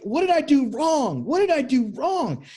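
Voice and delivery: high, hurt, repeated question; pained repeating. Retold or imitated. Heartbroken guy asking what he did wrong, hurt high plea. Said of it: "And in that pain".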